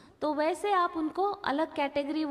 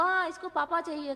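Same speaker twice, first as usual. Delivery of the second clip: mock baby talk; 4 semitones higher than usual. Shown as a demonstration. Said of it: "करके नहीं बोलना".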